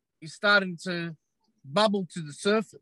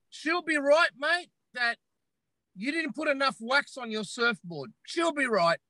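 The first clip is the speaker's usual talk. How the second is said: mock carefree dismissal; 3 semitones higher than usual. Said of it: "that's one saying you never, ever say".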